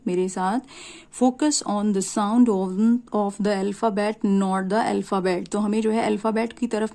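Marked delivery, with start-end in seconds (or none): 1.2-5.5 slow, word by word, stressing each; slow emphatic rule. Shown as a demonstration. Teacher to students, slowly stressing the rule. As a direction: spell out the rule slowly so it sinks in. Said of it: "teacher stresses the key rule".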